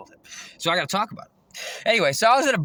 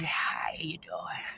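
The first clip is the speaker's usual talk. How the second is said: mock zombie greeting; 3 semitones lower, 11 dB quieter, much slower than usual.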